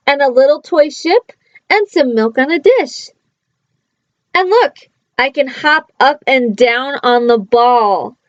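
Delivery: lively read-aloud, playful bounce on the rhymes; reading to children. Acted. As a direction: read it like a bedtime picture book. Reading a picture book aloud.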